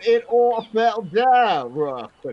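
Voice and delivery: mock south London storyteller; fake London accent. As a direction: drawl it out in a hammed-up London accent. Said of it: "my incredibly authentic accent".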